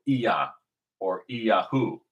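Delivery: "Iyah" as ee-YAH, "Iyahu" as ee-YAH-hoo. Shown as a demonstration. Teacher lists variants, "Iyah" and "Iyahu" both starting ee-YAH. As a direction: open "Iyah" and "Iyahu" on a distinct ee. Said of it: "that Y is actually".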